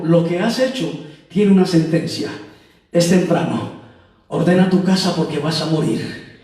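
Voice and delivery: low, grave pronouncement, mildly acted; solemn sentence. Wise man pronounces a death sentence. (sentencia solemne en voz grave)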